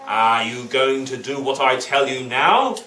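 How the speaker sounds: slow, mildly menacing judge; a hint of a threatening judge; demanding judge. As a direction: drag out the demand for obedience. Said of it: "and the judge said".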